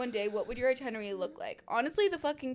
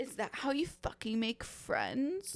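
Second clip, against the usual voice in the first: mock aggressive, slow, confrontational tone; 5 dB quieter than usual. Retelling what a man said to them: imitating an aggressive tone. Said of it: "he said it so aggressive".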